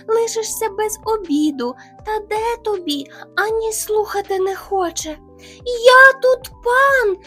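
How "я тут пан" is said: loud, slow bellow; shouting. Retold or imitated. Hare imitating the rival bear proclaiming loudly. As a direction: proclaim it like a tyrant. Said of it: "кричить".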